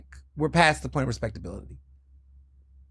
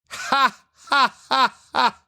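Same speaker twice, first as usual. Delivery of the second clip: high, loud mocking ha ha ha; mocking laugh; 10 semitones higher, 3 dB louder, much slower than usual. Real, not acted. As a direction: scoff out a derisive laugh. Laughs at Trump wanting prize.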